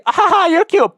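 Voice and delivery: high, loud girly mock laugh; mocking girl brushing him off in a high voice. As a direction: squeak it like a dismissive girl. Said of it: "that girl could have literally said".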